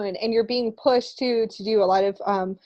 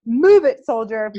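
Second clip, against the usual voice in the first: mock drill sergeant; 7 dB louder than usual. Coach-turned-sergeant urging listeners on, mock drill command. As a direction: playfully bark it like a coach. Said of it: "I feel like I'm a coach".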